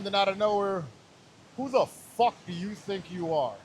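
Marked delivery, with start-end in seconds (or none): 1.6-3.5 inner voice. Retold or imitated. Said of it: "'cause it's my voice".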